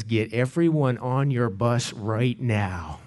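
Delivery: low, slow stern order; a hint of a stern boss giving an order; stern organizer. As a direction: organizer ordering the pastor to load the bus. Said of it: "And he said it that way".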